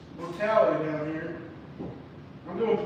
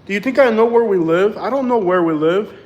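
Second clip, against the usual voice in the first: exasperated; 11 dB louder than usual. Real, not acted. Exasperated retort, said louder.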